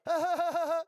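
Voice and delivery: high, loud jeering cackle; put-on mocking laughter. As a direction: laugh scornfully in a rapid high burst. Mimics the mockers of Jesus.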